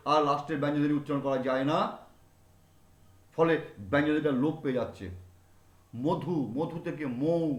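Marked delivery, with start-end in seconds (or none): 5.9-7.5 মধু slowly fading into মৌ; slow demonstration. Shown as a demonstration. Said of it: "আস্তে আস্তে ক্ষীণ হতে হতে". (ধীরে ধীরে মধু থেকে মৌ)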